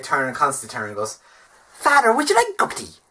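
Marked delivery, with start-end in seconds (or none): 1.7-3.0 much higher, bad impression of a pushy housekeeper; high eager housekeeper offering tea; Mrs Doyle. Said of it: "bad Father Ted impression".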